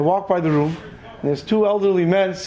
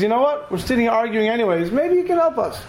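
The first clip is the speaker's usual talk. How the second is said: put-on old man; 4 semitones higher than usual. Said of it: "Another guy says".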